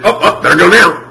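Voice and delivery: loud, high, sudden burst of panic; mock alarm. Child reacting once mom loses her temper, mock alarmed. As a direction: act a child jolted into moving.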